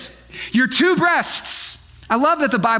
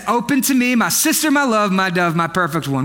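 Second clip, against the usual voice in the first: mock-romantic husband pleading at the door; laying it on thick; 5 semitones lower than usual. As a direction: croon it like you're laying it on thick. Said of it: "He is laying it on thick".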